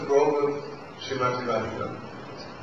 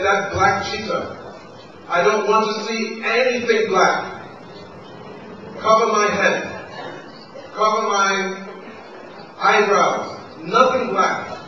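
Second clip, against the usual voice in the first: indignant; 3 semitones higher than usual. Acted. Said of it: "she developed so much man".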